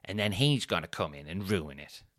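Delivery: lightly put-on wife's voice; a hint of the wife's voice; Sophie voice. Wife mocking the lad, lightly voiced. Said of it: "this is the voice I do for Sophie".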